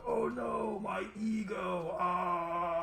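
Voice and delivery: high, squeaky, drawn-out cry of dismay; a tiny trapped creature lamenting its bruised ego; muffled wail from inside. Acted. GM voicing the creature inside the Behir, high wailing dismay. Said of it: "you hear a muffled voice from inside go".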